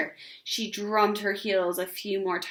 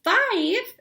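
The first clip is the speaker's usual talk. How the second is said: much higher, louder rising question; surprised exclaim; 11 semitones higher, 6 dB louder than usual. A narrator's reading. Neighbor surprised at Ramona's age, high rising. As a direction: gasp out the number. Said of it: "exclaimed Missus Whistler".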